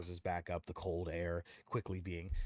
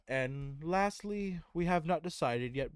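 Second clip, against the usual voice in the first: formal character voice; 8 semitones higher, 4 dB louder, slower than usual. Acted. Tyrael lists council candidates.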